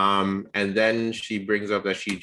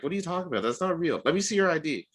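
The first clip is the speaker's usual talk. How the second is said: skeptical date; 8 semitones higher, faster than usual. Retold or imitated. Date voiced demanding ID.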